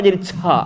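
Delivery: "ca" with the t slurred into a ch; overdone ta. Shown as a demonstration. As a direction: exaggerate the t into "ca". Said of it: "jangan jadi lebay".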